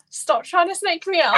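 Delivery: high shout of protest; laughing shout. Real, not acted. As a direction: call them out. Catches them pranking her.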